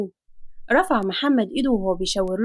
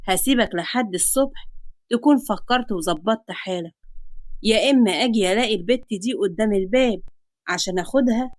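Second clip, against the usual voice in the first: menacing creditor. Acted. Creditor gives father until morning, mildly menacing. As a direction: lay down a deadline with understated threat.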